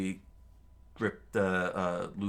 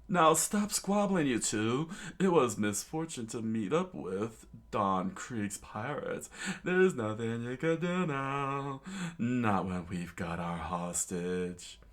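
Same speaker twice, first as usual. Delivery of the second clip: slightly higher, then slower mock villain; Pearl yelling; 3 semitones higher than usual. Pearl scolding Sanji and Luffy, hammed-up villain. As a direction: scold them, then gloat. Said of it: "Pearl screamed out".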